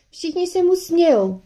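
put-on a touch of childish fury; fuming girl. A narrator's reading. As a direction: fume in a high, indignant voice. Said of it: "stekala se Georgie".

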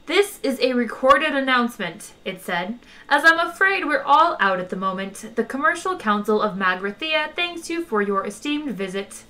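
polite old voice with a hint of menace; courteous menacing recording. Magrathean recording greeting visitors, polite menace. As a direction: charm over a threat. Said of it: "old, courteous, almost charming, but ... menace".

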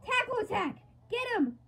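high, loud hammed-up battle shout; battle cry. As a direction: yell the attack name like an anime hero. Battle cry voicing the attack.

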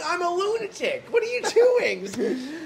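high, drawn-out laughing disbelief at himself. Retold or imitated. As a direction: catch yourself mid-rage and laugh. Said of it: "I'm like".

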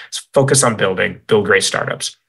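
slightly out of breath; short of breath after talking. Real, not acted. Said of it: "I'm a little bit out of breath".

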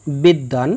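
বিদ্বান said as bid-dan, with a doubled d; বিদ্বান with a held d and no b sound; doubled consonant. Shown as a demonstration. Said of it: "সংযুক্ত বর্ণের উচ্চারণ দ্বিত্ব হয়".

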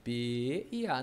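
P and A said slowly apart; split into letters. Acted. Student showing teacher a separation, letters slowly apart. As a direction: spell out P, then A, low and drawn out. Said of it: "eu separo assim".

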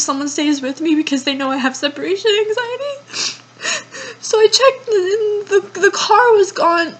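rushing through tears; real crying as the panic rises. Real, not acted. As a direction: panicky tearful voice.

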